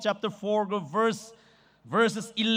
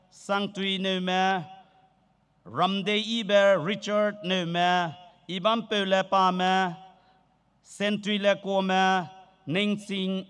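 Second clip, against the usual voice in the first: slow, careful roll call of names; reading names aloud; slower than usual. Real, not acted. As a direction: read each name out slowly to the hall. Reads out participant list.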